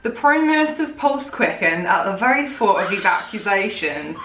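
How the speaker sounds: put-on West Country farmer accent; Gloucester farmer accent. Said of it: "like Gloucester".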